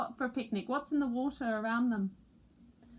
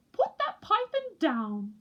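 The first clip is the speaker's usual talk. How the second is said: loud, higher warning; alarmed mother; 9 semitones higher, 5 dB louder than usual. A narrator's reading. Mother penguin warns chick about python, loud. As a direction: scold quickly. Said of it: "said Missus Pilchard Brown".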